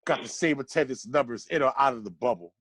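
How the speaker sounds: measured rhyming recital, landing each rhyme; spoken poem. Real, not acted. Friend reading a birthday roast poem about the Knicks, spoken poem. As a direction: read out a mocking verse with deliberate phrasing.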